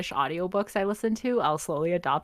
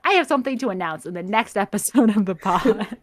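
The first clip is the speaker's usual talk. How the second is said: mock announcement; 3 semitones higher, 6 dB louder than usual. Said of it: "announcement on announcement would have been like".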